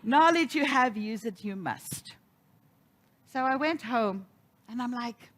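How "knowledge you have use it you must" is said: mild mock Yoda wisdom; Yoda-ish minister. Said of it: "She would get a little Yoda-ish".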